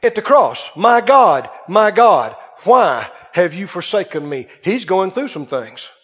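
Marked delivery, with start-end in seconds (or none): 0.7-4.5 crying out. Retold or imitated. Preacher quoting Jesus at the cross, crying out. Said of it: "Why did he cry".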